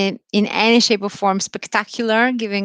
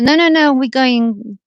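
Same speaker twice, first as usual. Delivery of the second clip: a sudden jump up, louder, with a lively no no no; retold insistent protest; 5 semitones higher, 5 dB louder than usual. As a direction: replay the protest to the officers with eager insistence.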